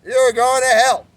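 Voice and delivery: high, loud, slow scolding threats; mock angry father. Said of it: "Reminded me of my father".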